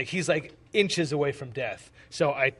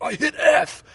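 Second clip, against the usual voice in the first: mock protest; 13 semitones higher, 9 dB louder, slower than usual. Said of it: "He's like".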